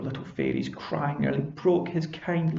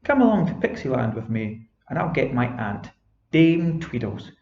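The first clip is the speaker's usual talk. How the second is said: cheerful fairy. Acted.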